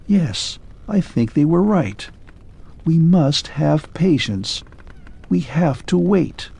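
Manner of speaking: a broken machine accepting patience; clockwork man. Acted.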